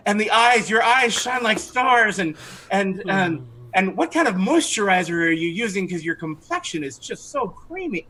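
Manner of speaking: high, smitten flattery; charmed archer fawning, lightly voiced; lovestruck gushing. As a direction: fawn over her like an infatuated fan.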